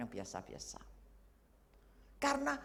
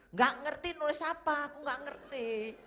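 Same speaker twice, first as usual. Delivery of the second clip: retold helplessness; 6 semitones higher than usual. Retold panic while writing exam.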